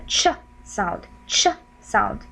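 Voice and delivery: "ch" as a short, isolated burst; "ch", T and U blended into one sound; demonstrated ch sound. Shown as a demonstration. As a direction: sound out "ch" with a brief neutral vowel. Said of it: "the T and the U together".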